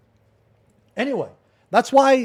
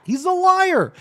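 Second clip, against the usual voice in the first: high, quicker, clipped repeat; angry verdict; 3 dB louder than usual. Real, not acted. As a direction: snap it out once more. Denouncing the accuser.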